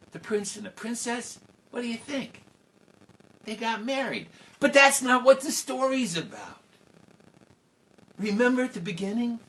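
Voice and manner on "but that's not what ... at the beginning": louder and higher, insisting; rising excited emphasis; emphatic storyteller. Real, not acted. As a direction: press the point to the audience. Teller raises voice to audience.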